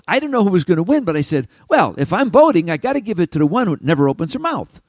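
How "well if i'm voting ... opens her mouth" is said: higher, louder declaration; eager emphatic pick; excited verdict. Retold or imitated. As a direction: announce it with delight. Declaring his vote, amazed.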